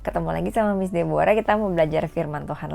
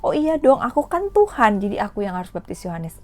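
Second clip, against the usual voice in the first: mock arrogant; 3 semitones higher, 3 dB louder than usual. Teacher shows how Jesus did not answer, mock arrogant. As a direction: brag it like a show-off. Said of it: "dengan sombong".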